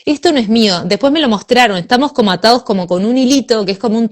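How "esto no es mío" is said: sharply higher, emphatic no no; firm refusal. Retold or imitated. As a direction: cut the thought off with a raised voice. (negándose con fuerza, más agudo)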